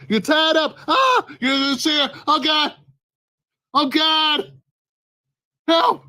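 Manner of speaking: high, frantic cries of fear; panicked victim. Acted. Tied-up victim begging for help, high and panicked. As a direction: plead for help, terrified and high.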